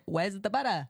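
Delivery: a touch of mock Aussie; terrible Aussie accent. Host recalling the practice phrase in her head, mock Aussie accent. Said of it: "a terrible Aussie accent".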